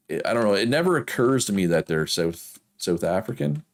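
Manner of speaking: ordinary talk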